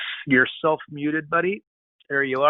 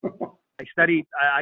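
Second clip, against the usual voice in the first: ordinary delivery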